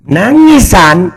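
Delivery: Nangis yelped out high and loud in scorn; scornful high yelp; mocking echo. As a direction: throw the word back high, scoffing. Mocking rival's crying claim.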